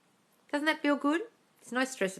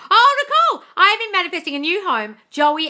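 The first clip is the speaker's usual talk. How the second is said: much higher and louder, gushing; gushing posh voice; 11 semitones higher, 10 dB louder than usual. Pretend. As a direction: swoon over the name. Gushing over a viewer's comment.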